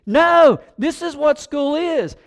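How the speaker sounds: teacher firmly telling Ryan this is school. Retold or imitated. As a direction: put your foot down as the teacher.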